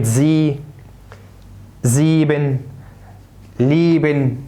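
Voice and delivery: زيبن and ليبن with a long "ee"; drawn-out "ee" in زي، زيبن، ليبن. Shown as a demonstration. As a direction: say زي as "zee", زيبن as "zeeben", ليبن as "leeben". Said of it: "تنطق إي مكسورة".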